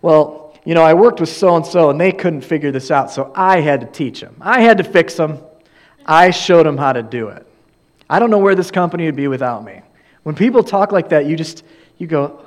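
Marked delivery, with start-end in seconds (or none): 0.0-9.8 louder, smug boasting, racing the last line; bragging coworker. Retold or imitated. Preacher mimicking a coworker who brags, smug and loud. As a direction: show off like a self-important know-it-all. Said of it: "you feel awkward when someone says".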